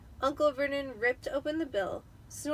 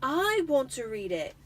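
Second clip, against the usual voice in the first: furiously; 3 semitones higher, 5 dB louder than usual. Acted. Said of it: "said Harry furiously".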